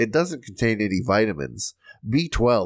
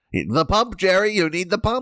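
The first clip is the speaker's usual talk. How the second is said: very high-pitched, comedic sitcom-style delivery; 10 semitones higher than usual. Joking that the pump talk is becoming a Seinfeld bit: Seinfeld bit voice. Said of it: "like a Seinfeld bit".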